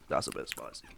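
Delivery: breathless whisper from heat; strained whisper. Real, not acted. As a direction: gasp it out, mouth burning. Eating hot chilli nut.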